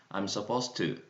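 "supposed to" run together as one word, the t and t merged; linked pronunciation. Shown as a demonstration. Teacher showing students how "supposed to" links. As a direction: glide straight from "supposed" into "to" without a break. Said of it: "to를 바로 이어서 발음하면 되겠습니다".

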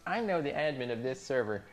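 lightly huffy roleplayer threatening; mock offended nerd. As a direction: play the wounded nerd, half joking.

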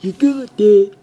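squeaky mock cowboy; Western accent. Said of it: "or whatever accent that was".

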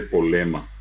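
"polema" without the r and b; "polema" with simplified consonant clusters; local Guaraní-influenced pronunciation. Retold or imitated. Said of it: "la gente dice polema".

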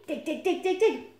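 high, punchy, repeated digs; eager badger showing off; eager demonstration.

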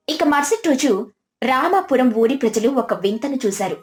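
ordinary delivery

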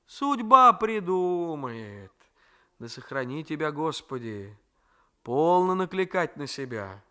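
a hint of a fond, grumbling old woman; grandmother's voice. Grandmother plans visits.

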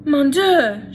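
loud French outcry, sharp and high; a mother's horrified cry; mock-despairing exclamation; shouted. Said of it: "shouted his mother".

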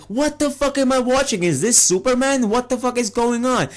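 high-pitched, incredulous mock freak-out; exasperated viewer reacting in disbelief; baffled outrage. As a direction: act out disbelief, pitch jumping way up. Acting out own baffled reaction to film.

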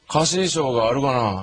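put-on calm old man suggestion; elderly uncle. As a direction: drawl it like the family elder.

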